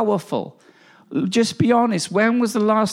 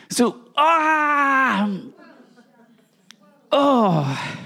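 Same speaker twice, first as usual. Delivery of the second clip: ecstatic cry; 5 semitones higher, much slower than usual. Real, not acted. Overwhelmed preacher cries out.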